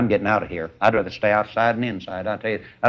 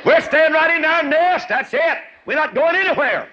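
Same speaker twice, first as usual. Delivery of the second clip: stubborn eaglet; 5 dB louder than usual. Acted. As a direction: squeak it out like a stubborn baby bird. Stubborn eaglet refuses flying.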